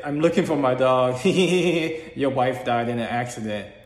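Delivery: lightly voiced taunting witch; creepy witch voice. Dream witch announcing the wife's death, lightly mimicked eerie. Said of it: "trust me, I can't mimic how creepy it was".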